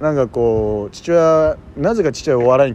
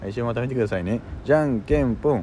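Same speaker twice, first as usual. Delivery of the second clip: mock Sazae-san ending; 3 semitones lower, 4 dB quieter than usual. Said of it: "サザエさんのじゃんけん".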